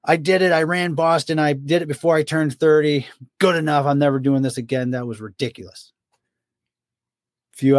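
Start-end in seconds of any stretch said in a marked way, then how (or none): 0.0-5.9 higher mock whiny complaint; imitating the Jackal. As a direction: whine like a runner swearing off marathons. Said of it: "He's like".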